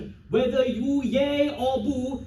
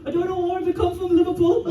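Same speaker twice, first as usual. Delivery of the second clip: stabbed bad guy; 7 semitones higher than usual. Acts being stabbed, accent slipping.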